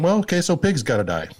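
put-on high, shrugging child voice; resigned kid. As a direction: accept it like a little boy. Kid resigning himself to ham.

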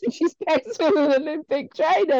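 high, snide gossip impression; mocking gossip voice. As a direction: sneer it like a catty spectator. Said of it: "same person said".

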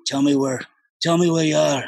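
lightly voiced, mildly menacing father on the phone; a hint of Liam Neeson in Taken; understated stern dad voice; Liam Neeson impression. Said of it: "It's like Liam Neeson".

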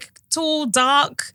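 swooning hype. Real, not acted. Co-host hyping the listener's man, swooning excitedly.

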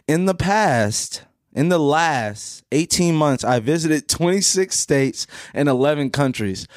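slow, deliberate mock menace; playfully threatening, drawn-out read-out. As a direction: read the boast out with measured weight. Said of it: "in a threatening voice".

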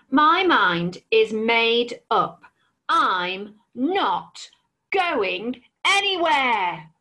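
very slow, weighty dragon; defiant dragon. Acted. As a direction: spell out each word in defiance. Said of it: "roared the dragon".

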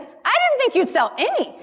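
high, laughing through the line; friend's blunt line, retold laughing; laughing quote. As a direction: retell her words while cracking up.

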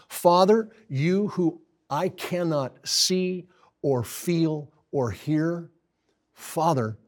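Jesus on the cross, anguish fading to trust; last words of faith. Retold or imitated. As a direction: call out to the unseen Father, then let go. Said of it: "Jesus said".

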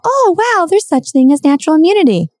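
mock the officials' sudden discovery; high sarcastic "oh wow"; mock surprise. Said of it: "what are they saying now".

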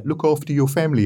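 geezery Cockney telly-advert voice; Ross Kemp Cockney accent. Retold or imitated. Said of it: "That was my Cockney accent".

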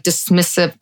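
slushy sh on the s sounds in "dismissive"; "dismissive" said with a real lisp, s slurred toward sh. Real, not acted. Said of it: "sorry, my lisp".

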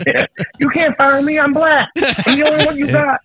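high, joking defiance; mock defiant. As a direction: play the untouchable employee, hammed-up.

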